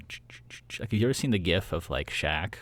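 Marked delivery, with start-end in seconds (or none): 0.1-0.8 unvoiced rhythmic ch-ch sound of a happy dance; breathy rhythmic ch-ch like a little happy shimmy; wiggle noise. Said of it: "I just kinda go".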